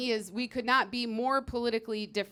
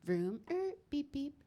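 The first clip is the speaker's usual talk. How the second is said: put-on child car noises; 4 semitones higher, 7 dB quieter than usual. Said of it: "He's going".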